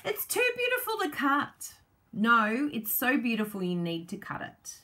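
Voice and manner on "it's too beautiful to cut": much higher, laughing mock whine; mock hoarder. Crafter mocks viewers who won't cut pretty paper, high laughing whine. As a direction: mimic a crafter too precious to cut. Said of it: "Don't look at this and go".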